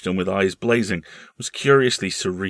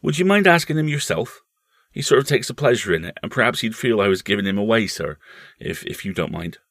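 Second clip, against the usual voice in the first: lightly voiced respectful servant, starting higher; deferential servant; 4 semitones higher, 4 dB louder than usual. Servant asking his employer's brother-in-law a favour, deferential. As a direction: play a tactful servant, easing down to a hesitant end.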